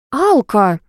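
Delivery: mild shout after a friend; calling out. A narrator's reading. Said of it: "выкрикнула я".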